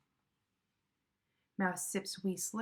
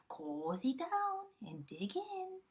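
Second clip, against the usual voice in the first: higher, slow, softening badger voice; cozy badger; 9 semitones higher, slower than usual. A narrator's reading. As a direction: settle everyone in gently. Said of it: "Badger says with a grin".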